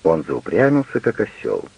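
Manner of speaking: ordinary delivery, nothing marked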